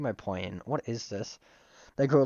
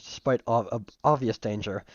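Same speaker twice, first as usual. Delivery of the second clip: hiccups. Real, not acted. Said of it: "I got the hiccups".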